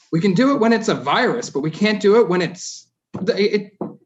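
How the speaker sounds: pleading with rising anger; emotional outburst. Real, not acted. Councillor venting at council table, emotional and loud. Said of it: "I'm getting emotional about it".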